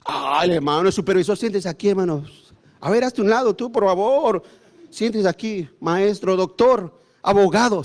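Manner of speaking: butter up the titled members with a mocking bow in the voice; mock fawning usher. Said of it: "Hay iglesias que sí te las valoran".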